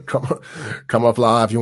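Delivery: robotic movie-cop line, half-botched; RoboCop quote. Retold or imitated. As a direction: attempt a RoboCop catchphrase. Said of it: "I tried to do the RoboCop quote".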